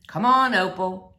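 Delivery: a hint of a father's mock complaint; resigned preacher. Preacher calls his daughter.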